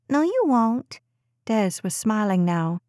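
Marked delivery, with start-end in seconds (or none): 0.1-1.0 put-on high child's voice begging to stay; a preschooler pleading to stay upstairs; pleading little girl. A narrator's reading. Daughter teasing mom.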